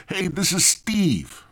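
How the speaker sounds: high, slow mock Indian accent; badly faked Indian accent. Caller introducing himself as Steve, badly faked Indian accent. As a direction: attempt an Indian accent and overdo it. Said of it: "I can't even do the fucking accent".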